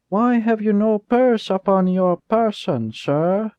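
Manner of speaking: put-on slow, high menacing boy; a boy robbing the driver at knifepoint, slow and menacing; cold threat. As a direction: let the sweetness turn cold. Jasper demands purse.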